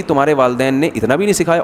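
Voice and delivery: understated reproach, said at ease; calm taunt. Retold or imitated. Pious mother-in-law to daughter-in-law, calmly taunting. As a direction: imitate a pious mother-in-law's calm dig. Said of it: "بڑے آرام سے کہے گی".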